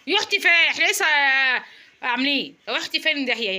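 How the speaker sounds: exasperated disbelief. Real, not acted. Mother exasperated with toddler.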